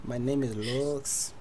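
put-on soft, slow Hispanic-accented introduction; mock Hispanic accent. Asked to do a Hispanic accent, quiet accented introduction. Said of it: "do a Hispanic accent".

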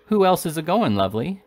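a touch of sly coaxing, starting high; insinuating. A narrator's reading. Woman pumping a young boy for gossip, mildly insinuating. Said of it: "in an insinuating manner".

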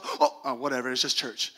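low, offhand churchgoer; dismissive shrug. Acted. Preacher mimicking faith turned into mere religion, dismissive shrug. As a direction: toss it off as if bored by it. Voices a jaded churchgoer's indifference.

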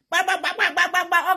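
high "ba-ba-ba" sound effect; quick repeated popping noises; imitated rapid bursts. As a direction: mimic a volley of farts.

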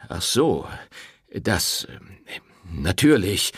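halting, faltering words; stammering. A narrator's reading. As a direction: fumble for an excuse. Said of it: "stammelte der Pfarrer".

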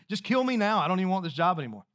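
a pastor's hammed-up tantrum, then a fast grumble; mock mad outburst. Pastor mocking himself in his office, hammed-up angry rant. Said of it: "I go to my office and I get mad".

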